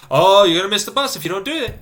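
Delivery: high, loud, crying nag; whiny mock nag. Mocking his own nagging thoughts, whiny and tearful. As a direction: whine the warning like a sob.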